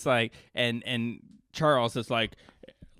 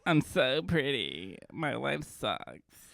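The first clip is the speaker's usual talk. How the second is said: mock whine; 5 dB quieter, much slower than usual. Mocking whiny kid.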